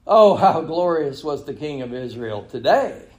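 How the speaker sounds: mock praise lifting at the end; lightly acted scornful admiration; sarcastic. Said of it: "sarcasm in her voice".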